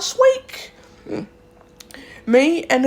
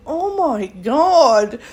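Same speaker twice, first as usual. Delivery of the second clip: exasperated; 5 semitones higher, 4 dB louder, much slower than usual. Real, not acted. Exasperated at workers' reaction.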